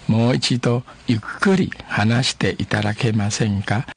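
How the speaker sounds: each syllable laid out slowly for learners; a teacher modelling the phrase again slowly; slow, careful demo. Shown as a demonstration. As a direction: repeat it slowly for the class. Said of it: "慢慢啊".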